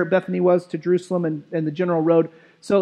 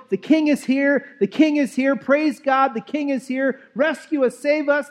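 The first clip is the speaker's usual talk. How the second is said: jubilant crowd; 5 semitones higher, slower than usual. Acted. Preacher voicing the crowd as Jesus arrives, higher and exultant. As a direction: announce the king's arrival with rising joy.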